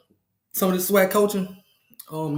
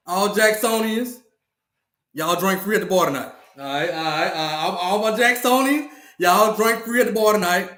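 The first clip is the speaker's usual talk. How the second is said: a brash club owner hyping up the crowd, pitched up; hyped club host; 3 semitones higher than usual. Acted. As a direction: play the boastful host welcoming everyone in. Hyped club owner hosting party.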